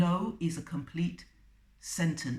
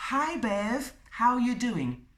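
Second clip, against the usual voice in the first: higher, louder mock salesperson hello; overfriendly salesperson; 5 semitones higher, 3 dB louder than usual. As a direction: play the over-familiar cold caller. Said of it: "A salesperson".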